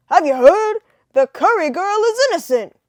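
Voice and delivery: put-on loud, high old-time newsman; 1930s voice. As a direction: call it out like a 1930s newsboy. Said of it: "nineteen thirties voices".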